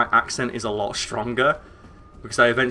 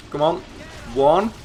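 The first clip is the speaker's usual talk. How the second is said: counting up higher and louder to a cheer; building excitement; 10 semitones higher, 10 dB louder, much slower than usual. Real, not acted. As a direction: count it out, rising to a triumphant yell. Pulling off double Zandatsu.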